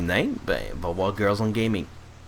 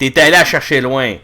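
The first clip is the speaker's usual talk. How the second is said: laughing; 3 semitones higher, 8 dB louder than usual. Real, not acted. Laughing at a pun.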